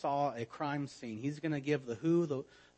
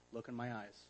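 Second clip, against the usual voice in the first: gentle parent; 3 semitones lower, 13 dB quieter, faster than usual. Retold or imitated. Parent gently lifts child's chin.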